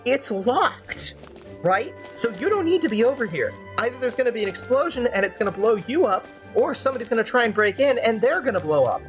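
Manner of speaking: high-pitched, worked-up rant; indignant ranting with pitch pushed up; exasperated rant. Real, not acted. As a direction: insist over an interruption, exasperated. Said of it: "Let me finish my rant".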